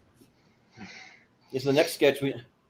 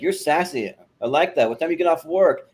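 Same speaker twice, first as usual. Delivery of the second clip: Southern redneck; 5 semitones higher, 5 dB louder than usual. Retold or imitated. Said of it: "totally Southern redneck".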